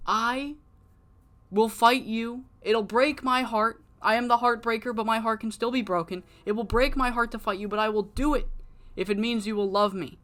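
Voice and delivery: high, put-on lovesick wrestler voice; Heartbreaker's voice. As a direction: plead like a hammy heartsick heel. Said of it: "And he's like".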